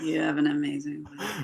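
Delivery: mock under-the-breath mutter. Retelling a line a woman said on a paddleboard date: imitating someone saying it under her breath. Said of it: "she said it so under her breath".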